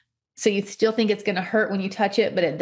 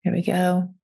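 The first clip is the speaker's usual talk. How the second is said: whistling nose. Real, not acted. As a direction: air whistling through the nose. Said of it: "My nose is whistling".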